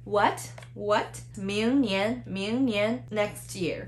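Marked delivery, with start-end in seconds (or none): 0.0-1.2 "What" rising each time; short upward-gliding "What"; two second tones. Shown as a demonstration. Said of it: "The second with the second". 1.3-3.0 明年 with both syllables rising; deliberate 明年, two upward glides; two second tones. Shown as a demonstration. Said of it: "The second with the second".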